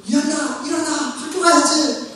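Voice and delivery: high-pitched mock wake-up call; imitated parental yelling. Parent waking the children for school, mock yelling. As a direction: play a parent calling sleeping kids up. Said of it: "이렇게 소리를 지릅니다".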